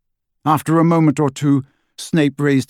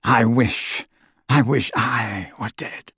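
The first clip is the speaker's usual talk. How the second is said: despairing. A narrator's reading. Snape grieving, wishes for death.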